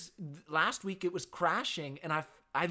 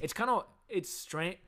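words pushed out through a burp; 5 semitones higher than usual. Real, not acted. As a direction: talk right through a coffee burp. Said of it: "big old coffee burp".

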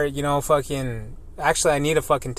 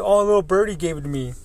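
smug teasing; 4 semitones higher, faster than usual. Retold or imitated. Coworker's smug reply retold.

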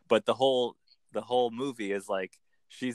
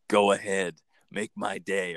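movie-line impression; 4 semitones lower than usual. Shown as a demonstration. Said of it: "or whatever in that voice".

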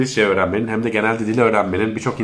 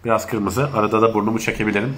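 stuffy nose from allergies; blocked nose. Real, not acted. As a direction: speak through a blocked nose. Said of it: "Burnum biraz tıkalı".

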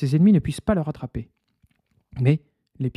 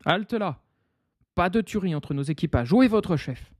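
prince's call; 4 semitones higher than usual. Acted. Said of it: "s'écrie".

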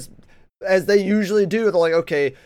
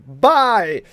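mock shout; 5 semitones higher, 7 dB louder than usual. Voicing redditors' gleeful order.

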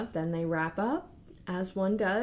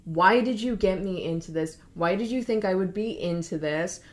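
mild mock anger; 4 dB louder than usual. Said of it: "starts fighting with Jessica".

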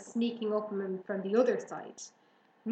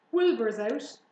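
louder animal announcement; excited news; 7 dB louder than usual. A narrator's reading. Horses passing on news of the escape, excited. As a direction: spread the news with a burst of volume. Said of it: "they said".

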